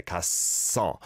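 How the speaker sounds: 갔어 with a tense doubled s held on the first syllable, then carried into 어; 갔어 pronounced with a tight, tense ss bridging both syllables; careful model pronunciation. Shown as a demonstration. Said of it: "The double shiot sound is on that first syllable".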